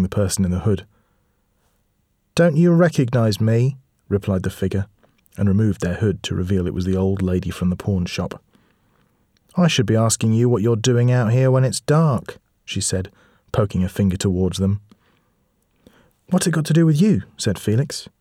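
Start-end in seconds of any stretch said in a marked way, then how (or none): 2.3-3.8 put-on slow, sly old woman; creepy old lady, drawn out. Sinister old lady reveals herself. 9.6-12.4 put-on old lady voice. Old lady scolding children. 16.3-17.2 put-on high, loud defiant boy; cheeky boy. Boy rude to old lady.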